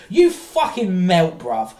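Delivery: loud, slow scornful jab; dragged-out insult, disgusted; slow contemptuous insult. Real, not acted. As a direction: spit it out slowly with contempt. Insulting Brian at the end of a rant.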